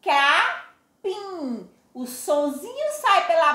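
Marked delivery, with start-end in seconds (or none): 0.0-1.7 Capim repeated, the final im nasal; nasal demo. Shown as a demonstration. Teacher repeats Capim for class, nasal ending. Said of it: "Pronuncie aí".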